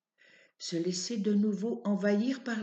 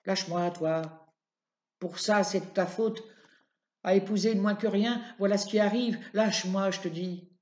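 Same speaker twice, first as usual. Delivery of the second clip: different tone. Acted. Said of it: "mais sur un autre ton".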